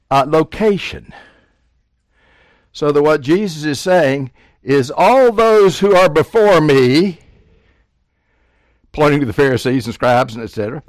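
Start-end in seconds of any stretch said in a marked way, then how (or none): 4.9-7.2 forceful preaching. Acted. Preacher voicing Jesus' accusation.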